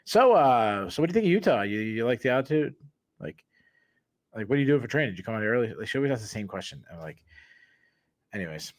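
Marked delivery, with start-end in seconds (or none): 0.0-5.7 imitating eager reporter. Reporter at pre-interviews asking the same thing, lightly mimicked. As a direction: parody her chirpy repeat question. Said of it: "was like".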